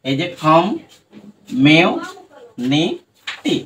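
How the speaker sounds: কম, মেও, নি, টি said as separate beats; one syllable at a time. Shown as a demonstration. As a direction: break it into syllables. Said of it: "দেখো".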